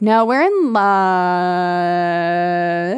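very slow, drawn-out swoon; mock dreamy lovers. Friend mocking Mark and Jade, slow dreamy swoon. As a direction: sigh it like lovesick teens. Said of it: "Mark and Jade are like".

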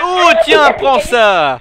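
high loud squawk; squeaky duck voice. Pretend. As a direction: taunt in the cartoon voice. Fighting in duck voice.

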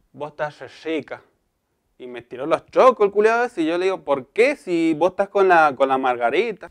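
Mendoza caricature gossiping, dragged R; hammed-up local Mendoza accent; mock Mendoza accent. La Pocha retelling a flirt's advances, mock Mendoza accent. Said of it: "La imitación de un mendocino".

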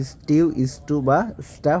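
স্টিউ as "stiu", স্টু as "stu", স্টা as "sta"; pronunciation demo. Shown as a demonstration. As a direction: list the readings স্টিউ, স্টু, স্টা as separate syllables. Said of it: "এর উচ্চারণটা". (স্টিউ, স্টু বা স্টা আলাদা করে উচ্চারণ)

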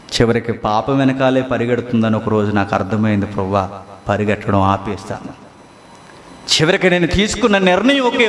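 low humble prayer of surrender. Acted. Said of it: "ఈ పాటలో అంటున్న మాట".

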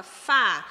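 "Fá" alone, loud and strong; stressed syllable. Shown as a demonstration. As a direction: hit "Fá" hard as the stressed syllable. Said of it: "Qual é a sílaba tônica?". ("Fá" forte, como sílaba tônica)

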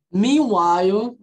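Meanwhile stretched slowly, MEE-wile; slow pronunciation demo. Shown as a demonstration. Teacher modelling Meanwhile slowly to students. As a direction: draw Meanwhile out for learners. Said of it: "Meanwhile significa".

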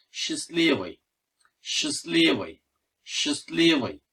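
"Счастливый" stressed on the и of ЛИ; stress on middle i. Shown as a demonstration. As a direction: say "Счастливый" as shis-LEE-viy, repeated as a model. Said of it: "vurgu ortada, i harfinde".

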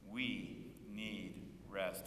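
drawn-out call and response; slow group repeat. Shown as a demonstration. Congregation echoing the pastor slowly. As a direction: stretch it out with the congregation. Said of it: "Will you say that with me?".

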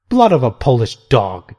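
spat-out insult in a different voice; contemptuous exclamation. Acted. The apostate bishop insulting the nuns, contemptuous. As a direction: curse them with contempt. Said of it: "he exclaimed".

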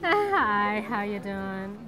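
casual American accent greeting. Shown as a demonstration. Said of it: "use your American accent and say hello".

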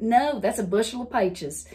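firm Southern correction, "peaches" as "pie-ches"; Southern accent. Retold or imitated. Correcting city friends, Southern accent. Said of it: "And I'm like".

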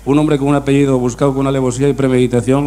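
ordinary delivery

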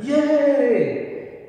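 high, drawn-out imitation of cheering kids; children's loud cheer. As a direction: cheer like a whole class of second graders. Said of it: "they all went".

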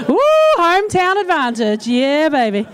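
high, excited cheer; playful whooping. Real, not acted. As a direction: crow happily to a home crowd. Celebrating the home crowd's laughter.

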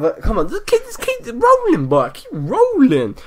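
egging on the pack luck; real eager cheering; excited urging. Real, not acted. Urging packs on.

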